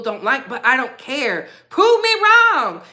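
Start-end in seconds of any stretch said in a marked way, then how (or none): 1.7-2.8 defiant dare. Real, not acted. Defiant challenge to critics.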